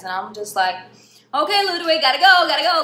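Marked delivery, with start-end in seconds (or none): 1.3-2.8 mock hurried goodbye. Hurrying away from Ludwig.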